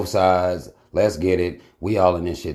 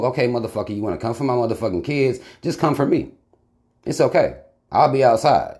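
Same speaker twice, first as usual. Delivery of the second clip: defiant challenge; 4 semitones higher than usual. Retold or imitated. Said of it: "you're gonna want the smoke".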